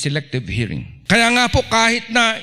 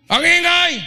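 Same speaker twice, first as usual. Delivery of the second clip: exclaiming at noise; 11 semitones higher, 4 dB louder than usual. Acted. Acting out how noisy the eatery is, high exclamation. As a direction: call it out high over the din.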